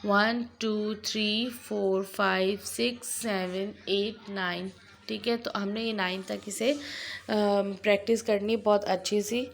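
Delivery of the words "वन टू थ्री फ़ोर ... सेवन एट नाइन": put-on slow counting for children; counting drill. Shown as a demonstration. Teacher counting numbers aloud for pupils. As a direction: count one to nine for the class. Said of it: "वन till नाइन की practice".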